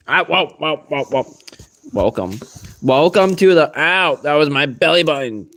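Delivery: startled, delighted whoa at a climbing pet; excited pet greeting. Real, not acted.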